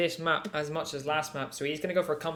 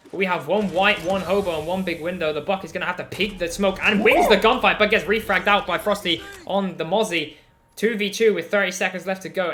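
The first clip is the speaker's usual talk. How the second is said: excited play-by-play; 2 semitones higher, 4 dB louder than usual. Real, not acted. Caster calls the clutch round.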